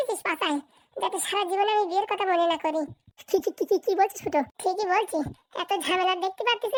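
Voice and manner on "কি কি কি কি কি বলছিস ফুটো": rapid-fire repeated stutter on the question; disbelieving stammer. Acted. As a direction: stutter repeatedly, taken aback.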